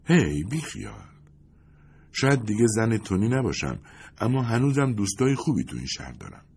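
a hint of a bright woman's voice reassuring him; Lindy's voice. A narrator's reading. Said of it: "لیندی گفت".

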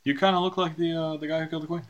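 lightly voiced guard, doubtful and probing; suspicious guard. Guard stopping the wanted man at the gate, mildly suspicious. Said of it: "and they go".

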